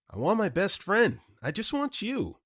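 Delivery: a touch of hammed-up tenderness; mock sincere. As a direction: gush it like a cheesy confession. The speaker's mock-tender confession.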